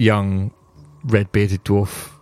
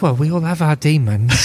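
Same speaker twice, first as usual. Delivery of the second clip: dwarf voice; 7 semitones higher than usual. Acted. Dwarf voice reply.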